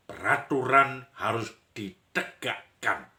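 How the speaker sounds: put-on Balinese Indonesian; Balinese accent. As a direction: imitate a Balinese speaker laying down rules. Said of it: "kalau di Bali mengatakan".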